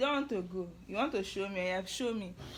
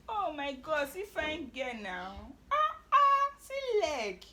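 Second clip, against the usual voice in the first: gushing delight; 4 semitones higher, 7 dB louder than usual. Real, not acted. Mother admiring her toddler's legs, excited squeal. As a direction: gush over her like a proud mom.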